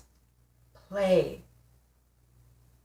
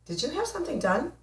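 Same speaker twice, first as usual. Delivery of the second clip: put-on old girlfriend's question; 9 semitones higher, 6 dB quieter, faster than usual. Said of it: "she said".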